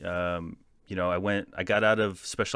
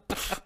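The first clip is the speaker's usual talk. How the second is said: mock spit-take; spitting out; 4 dB quieter than usual. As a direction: sputter it out, imitating a spit. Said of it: "I spit that back on the floor".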